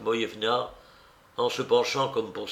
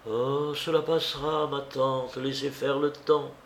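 soothing; 3 semitones higher than usual. Acted. Lise asking her aunt to give it time, mild soothing.

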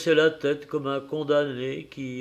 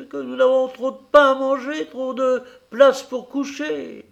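much higher and louder, furious tirade; angry outburst; 8 semitones higher, 6 dB louder than usual. A narrator's reading. Wife exploding at her husband over the foundling, furious tirade. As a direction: explode at him in disbelief. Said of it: "Alors la mère Louveau éclata".

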